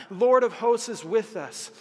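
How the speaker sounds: a rousing preacher's shout of faith; proclaiming. Acted. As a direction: proclaim it to the whole room. Sermon refrain, proclaimed.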